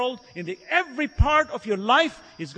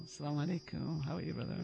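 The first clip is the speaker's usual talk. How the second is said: put-on a touch of a gentle, well-mannered boy, softer; mild imitation of a reformed kid greeting sweetly; soft polite greeting; 7 semitones lower, 12 dB quieter, faster than usual. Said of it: "soft cotton".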